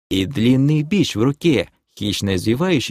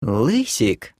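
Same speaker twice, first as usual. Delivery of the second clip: cooing. Acted. Demoness glides up to the elf, cooing. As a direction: coo it flirtatiously. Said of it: "проворковала демоница".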